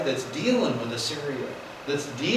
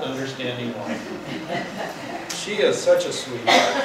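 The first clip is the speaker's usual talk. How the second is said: sarcastic drawl; 2 semitones lower, slower than usual. Acted. Ironic praise of Jezebel.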